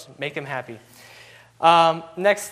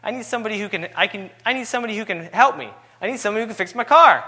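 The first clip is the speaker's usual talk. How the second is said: put-on mad young man; 3 semitones higher than usual. Young driver snapping at the old man who offers help, building anger. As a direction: snap at the old man, getting heated. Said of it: "so, you know, he was mad".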